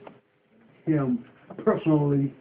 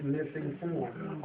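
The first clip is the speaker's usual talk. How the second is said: slow, quiet repeat; dictating; 5 semitones lower, 13 dB quieter, much slower than usual. Shown as a demonstration. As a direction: confirm the words slowly. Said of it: "read it back to me".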